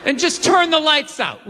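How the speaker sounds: giggling through the thought; laughing. Retold or imitated. Comic imagining his own dark joke, laughing. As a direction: laugh it out as you say it.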